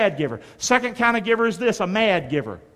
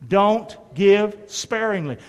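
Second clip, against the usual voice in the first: slow and deliberate, congregation repeating; slow call-and-response; slow, emphatic repeat; 5 dB louder, slower than usual. Shown as a demonstration. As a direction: say it slowly with the crowd. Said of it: "Can you say that with me?".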